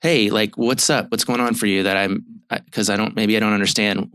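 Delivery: lightly inviting, open question; gentle invitation. Shown as a demonstration. Therapist modeling how to ask a crying partner, gentle invitation. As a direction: ask without demanding, as an invitation. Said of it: "versus an invitation".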